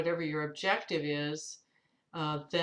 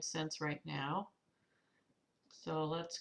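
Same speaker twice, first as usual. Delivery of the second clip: frog in throat; 7 dB quieter, slower than usual. Real, not acted. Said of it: "I got a frog in my throat this morning".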